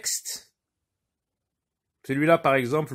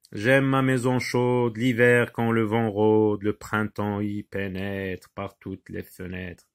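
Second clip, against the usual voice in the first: slow, measured verse reading; poem recitation; 2 semitones lower, slower than usual. Acted. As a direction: read the poem aloud slowly.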